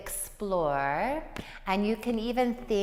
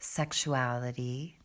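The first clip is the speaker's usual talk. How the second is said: guided meditation; 5 semitones lower, 5 dB quieter than usual. Acted. Yoga teacher leading students into breath below the belly, guided meditation. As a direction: ease them unhurriedly into the breath, pitched low.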